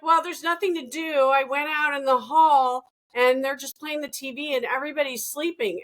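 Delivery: 1 mom complaining. Retold or imitated. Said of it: "it's like".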